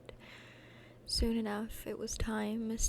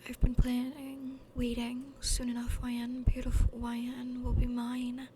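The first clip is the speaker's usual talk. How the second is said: scheming villain monologue. Acted.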